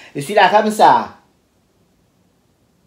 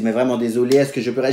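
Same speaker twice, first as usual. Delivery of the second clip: desperate pleading; 6 semitones lower, 4 dB quieter, faster than usual. Retold or imitated. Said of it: "Le gars désespéré".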